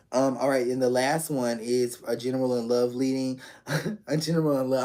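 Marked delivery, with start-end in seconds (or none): 3.7-4.8 fast, giggling repeat; amused, quick, laughing aside. Real, not acted. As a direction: read it out through a laugh. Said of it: "I'm laughing 'cause".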